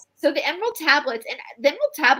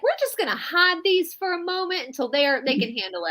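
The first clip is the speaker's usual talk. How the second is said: lightly put-on Southern accent for Thoth; 5 semitones higher, 3 dB quieter than usual. Thoth hiding the tablets, a light Southern accent. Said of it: "I gave Thoth, Thoth a Southern accent".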